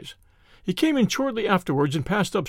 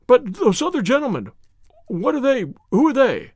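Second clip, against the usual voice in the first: frightened; 5 semitones higher, 3 dB louder than usual. A narrator's reading. Frightened man questions strangers.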